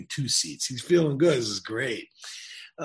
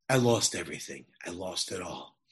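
dejected confession; 6 semitones lower than usual. Retold or imitated. Young man admits his ruin to the stranger, dejected. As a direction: let it drop heavily, as retold defeat. Kid confesses losing everything.

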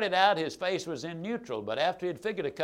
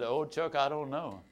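hesitant backing off; 3 semitones lower, 5 dB quieter than usual. Retold or imitated. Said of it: "they'll start crawfishing".

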